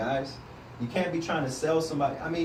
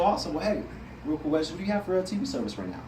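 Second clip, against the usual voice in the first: friendly sales opener; faster than usual. Shown as a demonstration. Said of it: "we use our hands".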